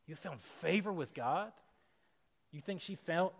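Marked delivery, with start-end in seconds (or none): 0.1-1.5 favor rising in disbelief; incredulous question. Shown as a demonstration. Preacher questioning the angel's words to the congregation, incredulous. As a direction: turn the blessing into a doubting question.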